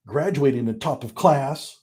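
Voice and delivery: lightly imitated short-burst reading; short emphatic bursts. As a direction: read in little punched bursts. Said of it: "little short bursts where every sentence is emphasized".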